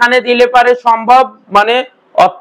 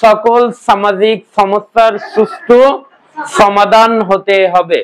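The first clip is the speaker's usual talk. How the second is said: put-on Chapai accent; slower than usual. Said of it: "ওরা বলে".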